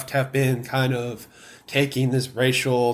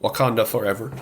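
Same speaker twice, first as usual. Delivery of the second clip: Wakanda salute; 4 semitones lower, faster than usual. Shown as a demonstration. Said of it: "you gotta say Wakanda forever".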